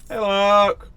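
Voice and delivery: high, loud cartoon hello; high greeting. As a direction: greet him in a squeaky voice. Greeting game character.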